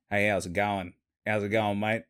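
put-on broad bogan Australian accent; redneck Aussie accent. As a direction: imitate a rural Aussie redneck. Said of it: "the rednecks are like".

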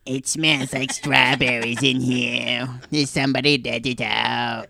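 a lightly voiced character who can't say his R's; speech impediment voice. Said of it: "your alternate character's voice".

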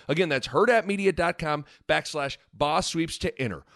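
upbeat sponsor read. Acted. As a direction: read it like a radio ad. Ad read inside podcast.

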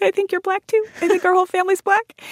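put-on high kid voice to parents; imitating child self. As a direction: squeak it like a little girl. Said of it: "And I was like".

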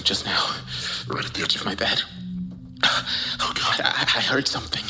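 breathless whispered terror; hushed creeping horror. Acted. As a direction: stammer it out, scared stiff. Terrified after hearing growl.

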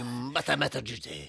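high, muddled mock-French drifting toward Asian; a French accent gone wrong, sounding Asian; botched Asian-sounding accent. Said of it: "Ew, now he's Asian".

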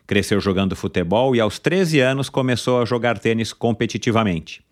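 upbeat podcast host intro; announcer intro. Acted. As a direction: build up to the guest's name. Announces the guest's biography.

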